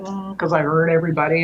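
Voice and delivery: a hint of a sheepish little boy, a bit fast; lightly voiced guilty child, sheepish. Retelling her brother's confession, a touch sheepish. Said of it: "like a sheepish little boy".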